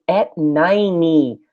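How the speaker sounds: "ninety" American style, t almost gone; flapped T. Shown as a demonstration. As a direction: say "ninety" like nai-nee. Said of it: "Lembra que não é ninety, e sim ninety".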